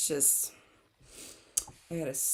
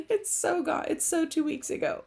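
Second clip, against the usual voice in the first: laughing; 11 semitones higher, 3 dB louder than usual. Real, not acted. Laughing about stale video.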